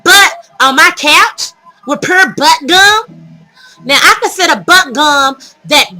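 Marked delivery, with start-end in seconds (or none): 0.1-3.4 mock outrage. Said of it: "So I am outraged".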